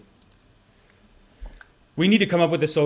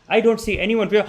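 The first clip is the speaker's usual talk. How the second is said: mock-adoring exclaim; fawning guy; 6 semitones higher, 5 dB louder than usual. Man gushing at white woman, hammed-up adoring. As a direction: gush like a smitten suitor.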